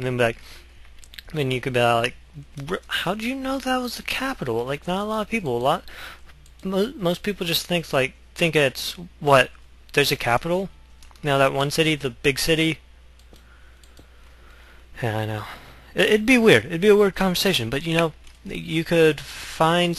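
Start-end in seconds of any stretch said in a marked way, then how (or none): 2.7-12.8 much higher, quizzing voice; playing someone who catches the bluff; mock incredulous. Imagined speaker quizzing the bluffer. 15.9-20.0 higher, louder, fast excited aside; laughing at the silly scenario; amused and excited. Real, not acted.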